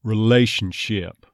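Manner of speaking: "Relationship" slowly, A starting as schwa; neutralized A "Relationship". Shown as a demonstration. Coach demonstrates the vowel shift, slow "Relationship". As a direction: begin the diphthong in "Relationship" on uh. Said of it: "neutralized all the way to a schwa".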